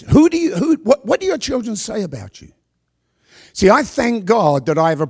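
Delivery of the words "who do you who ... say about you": rising high pitch. Real, not acted. Preacher asking the congregation, voice soaring high. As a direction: pitch jumps high, then sinks.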